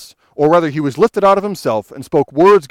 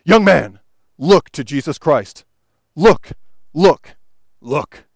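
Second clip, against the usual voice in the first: raised retold shout of a Methodist preacher; mild mock shout; slower than usual. Preacher calling to young Spurgeon, a mild mock shout. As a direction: call out to the young man, half-hearted shout. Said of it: "he shouted".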